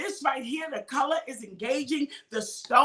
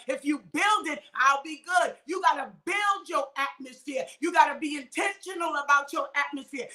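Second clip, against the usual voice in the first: preaching at full force; 3 semitones higher than usual. Acted. Preacher urging listeners to stop mourning, full-force preaching. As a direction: preach it out hard to the congregation. Raised-pitch preaching run.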